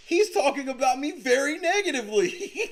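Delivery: high mock plea breaking into laughter. Mimicking the rival's plea to Your Honor, laughing mockery. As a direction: mimic the complaint, then crack up.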